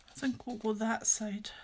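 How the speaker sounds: quiet unvoiced whisper. Real, not acted. Whispering an aside during a live stream.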